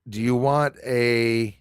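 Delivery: ordinary talk, nothing marked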